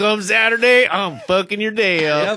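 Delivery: put-on full-on loud redneck accent. Repeating another speaker's line back to mock it: imitating a redneck voice. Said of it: "you sounded straight redneck".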